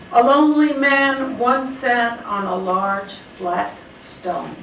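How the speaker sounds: slow, measured poem recital; poetry reading. Acted. Poet opening her poem Another Spring to an audience, measured recital. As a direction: read the poem slowly, letting each line fall.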